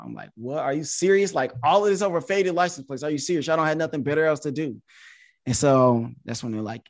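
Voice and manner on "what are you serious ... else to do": retold incredulous back-talk, pitched up; cheeky, indignant disbelief; smart aleck. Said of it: "this is where the real smart aleck comes out".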